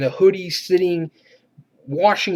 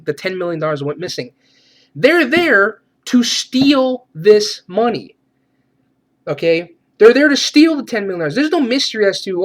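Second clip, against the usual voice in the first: emphatic rant; 4 semitones higher, 3 dB louder than usual. Real, not acted. Insisting on the plot point.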